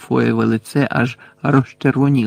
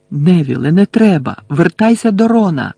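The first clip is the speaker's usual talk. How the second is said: higher, urgent call; urgent warning shout; 4 semitones higher, 4 dB louder than usual. Acted. Harry sending his friend back to Ron, urgent shout.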